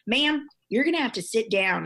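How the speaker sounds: put-on loud, annoyed mom with an accent; angry mom. Flight attendant ordering a passenger to sit, angry mom. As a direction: scold like an annoyed Missouri mom. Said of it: "It was like my angry mom".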